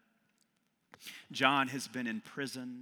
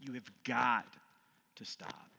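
fading to a whisper. Acted. A brutally honest friend whispering to a loved one. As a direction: lean in and say it gently as a friend. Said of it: "a dear but brutally honest friend".

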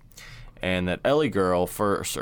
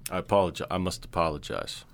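ordinary talk

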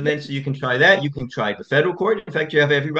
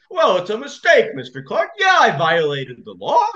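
high mock outburst, breaking into a yell; imitating a furious judge; 6 semitones higher than usual. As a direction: rant like the judge losing his temper. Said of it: "he was shouting at him".

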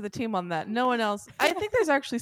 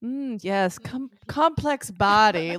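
pretentious wine snob; much slower than usual. Retold or imitated. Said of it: "I found myself saying".

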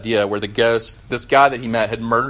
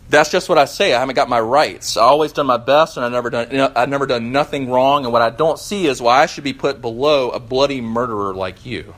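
indignant ghost; 3 dB louder than usual. Acted. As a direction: snap back at the bright man. Ghost argues with bright man.

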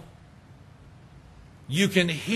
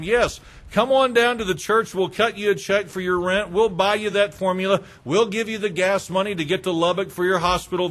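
mock cheerful offer.

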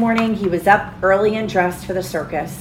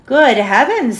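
alarmed grandmother; 5 semitones higher, 6 dB louder than usual. A narrator's reading.

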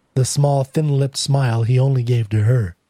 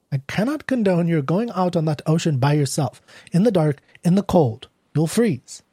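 mildly stern warning, pitched up; lightly voiced disapproving clerk; 4 semitones higher than usual. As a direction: refuse with a touch of official concern. Desk clerk refuses and warns.

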